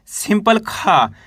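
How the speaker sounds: सिंपल खा drawn out slowly, plain short a; slow demo. Shown as a demonstration. Teacher showing the bare खा to students, slowly. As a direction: spell out खा slowly for pupils. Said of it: "इसको आपको simple पढ़ना है खा".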